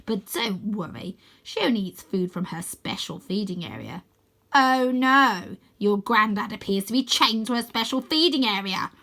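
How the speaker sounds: lightly voiced gloating villain; taunting villain. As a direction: toy with the captives. Croaky taunts.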